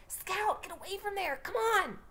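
put-on high, urgent kid's yell; scared brother yelling; screaming. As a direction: call her away in alarm. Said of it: "Jem was screaming".

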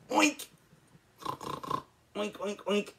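high squealy oinks; playful high pig noises. Retold or imitated. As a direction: oink like a little pig. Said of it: "What sort of animal makes that noise".

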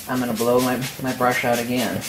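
side-of-mouth speech, lips barely open; talking out of mouth corner. Real, not acted. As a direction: speak from the corner of your mouth. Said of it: "I'm talking out of the corner of my mouth".

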